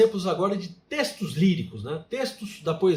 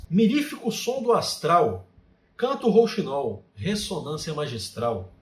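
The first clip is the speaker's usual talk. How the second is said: recital de haikai: poetry recitation. Shown as a demonstration. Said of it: "Eu vou recitar alguns haikais". (declamação poética de haikai)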